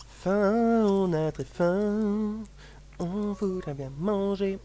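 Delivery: slow, high, drawn-out monster voice. Pretend. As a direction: groan it like a hungry monster. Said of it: "la voix de monstre".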